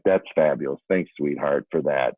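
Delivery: mildly sarcastic, understated thanks; retold sarcasm. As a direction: thank her as if it were no help at all. Sarcastic thanks to wife's laughing.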